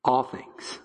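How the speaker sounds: "All things" whispered, soft and awed. Real, not acted. Hushed repeat after question.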